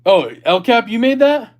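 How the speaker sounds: startled, rising oh-wait discovery; surprised realization. Real, not acted. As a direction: pitch jumps high in sudden surprise. Realizes chat member made spray.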